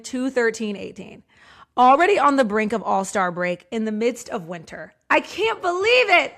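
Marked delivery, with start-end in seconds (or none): 1.8-6.3 mock all caps excitement. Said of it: "All caps, exclamation point".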